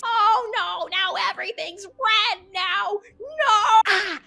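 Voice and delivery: high, loud wailing yells; mock panic. Streamer reacts to everything turning red, high panicked yelling. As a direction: shriek as if blinded by the sight.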